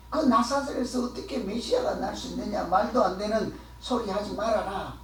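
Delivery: mildly dismissive retold objection; unimpressed. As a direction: brush it off as nonsense, without raising the voice. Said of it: "하고는 시큰둥하는 거예요".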